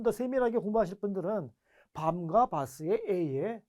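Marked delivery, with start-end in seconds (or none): 1.9-3.6 slow careful contrast. Shown as a demonstration. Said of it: "퀄리티가 좀 다르구나".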